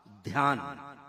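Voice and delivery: "ध्यान" said low and carefully, dhy cluster clear; "ध्यान" pronounced dhyaan, aspirated dh with a y glide; Sanskrit word. Shown as a demonstration. Lecturer gives the Sanskrit form to the audience: "ध्यान" said low, dhy cluster clear. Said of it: "ये शब्द संस्कृत में हुआ".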